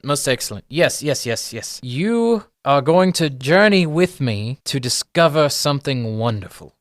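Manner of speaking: high, loud dawning recognition, easing into grandeur; delighted gnome professor. Acted. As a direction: greet helpers with theatrical relish. Gnome professor realises who they are.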